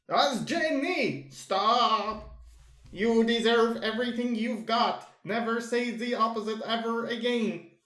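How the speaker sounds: lightly voiced girl, firm and caring. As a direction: gently scold him out of self-pity. Frankie scolds him gently.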